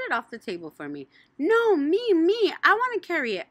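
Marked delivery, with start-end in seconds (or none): 1.4-3.5 high, loud insistent cry; hollered. Acted. Junie B hollering to carry the cake. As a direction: demand it loudly. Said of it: "I hollered".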